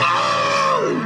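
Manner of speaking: sharp cry of pain; pained yelp. Acted. Weasel stung by bees yelps in pain. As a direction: yelp as the sting hits.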